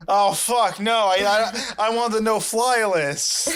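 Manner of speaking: high laughing panic; laughing dismay. Real, not acted. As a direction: crack up in mock horror. Horrified joking reaction.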